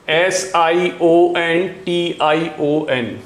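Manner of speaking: बहुत धीरे अक्षर गिनाते हुए, एसआईओएन; लिखते-लिखते धीमी आवाज़ में स्पेलिंग बोलना; slow dictation. Shown as a demonstration. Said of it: "बहुत इंपॉर्टेंट वाले ही लिखूंगा". (छात्रों को लिखवाते हुए धीमी स्पेलिंग)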